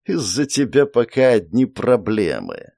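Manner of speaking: grumbling serpent spirit; displeased serpent. Acted. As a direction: answer with sour irritation. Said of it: "недовольно поморщился змей".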